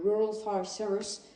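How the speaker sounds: "Rural Fire Service" said slowly with an English accent; a French speaker trying "Rural Fire Service" in English. Real, not acted. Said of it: "excusez mon accent". ("Rural Fire Service" avec un accent anglais approximatif)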